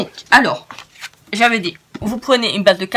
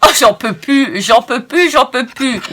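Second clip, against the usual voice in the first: giggling, louder, can't stop laughing; helpless laughter; 3 semitones higher, 5 dB louder than usual. Real, not acted. Crafter cracking up at her own blunder, giggling loudly. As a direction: gasp it out through real giggles. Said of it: "je rigole de moi-même".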